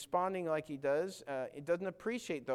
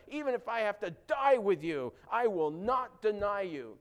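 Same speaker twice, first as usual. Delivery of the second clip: stronger vow; 5 semitones higher, 7 dB louder than usual. Retold or imitated. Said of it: "he even gets stronger".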